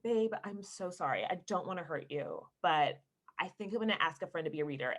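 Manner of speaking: soft, low apology to a husband; gentle apology. Retold or imitated. Actor breaking it to husband, gentle apology. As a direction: let them down softly.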